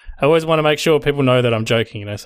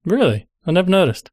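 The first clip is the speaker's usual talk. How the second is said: higher-pitched mock surprise; sarcastic; 7 semitones higher than usual. Co-host teasing someone who misses sarcasm, sarcastic. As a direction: feign total astonishment at old news. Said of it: "Are you being sarcastic".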